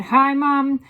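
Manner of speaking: loud, high greeting; boy hailing his mother; calling out. A narrator's reading.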